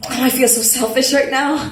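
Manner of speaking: self-mocking laugh. Laughing at herself.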